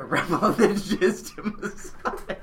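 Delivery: breaking up mid-sentence; laughing while reading. Real, not acted. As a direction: giggles swallow the end, slow. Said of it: "I can't do this".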